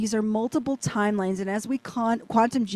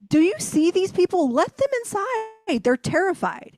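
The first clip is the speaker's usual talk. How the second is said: urgent plea; 7 semitones higher than usual. Retold or imitated. Retold pleading with security guard.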